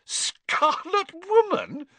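high, slow amused repeat; suppressed giggles. A narrator's reading. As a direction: hold back a giggle on the words. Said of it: "shaking with suppressed giggles".

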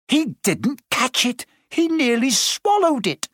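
mild mock howl of outrage; howling protest. A narrator's reading. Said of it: "Flint was still howling".

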